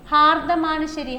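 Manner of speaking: ഹാർദമാണ് said slowly and clearly; slow, stressed correct form. Shown as a demonstration. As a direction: spell out the right word. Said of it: "ഹാർദവൻ തെറ്റാണ്". (ശരിയായ രൂപം പതുക്കെ)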